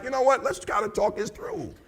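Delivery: softly voiced, calm suggestion; reasonable C type. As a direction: gently propose talking it out. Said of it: "had I been a C".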